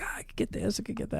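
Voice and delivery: hushed, muttered indecision; mock dithering mumble. Host at McDonald's menu, mumbling his indecision quietly. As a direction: mumble to yourself, unable to choose.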